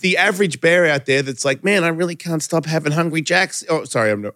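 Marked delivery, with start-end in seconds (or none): 1.6-3.6 put-on a light, slipped-in Australian accent. Imitating a struggling guy craving Burger King, light Australian accent. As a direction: drift into an Aussie voice without meaning to. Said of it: "I just turned into an Australian".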